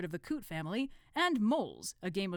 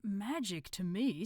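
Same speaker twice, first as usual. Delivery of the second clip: nervous; 4 semitones higher, slower than usual. Acted. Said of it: "in the nervous tone".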